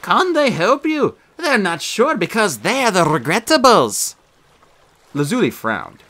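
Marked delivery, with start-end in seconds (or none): 0.0-4.2 slow, dramatic trailer announcer, pitched well up; movie trailer voice. Acted. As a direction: sell it like an epic film trailer, slowly. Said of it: "He adopted a movie trailer voice".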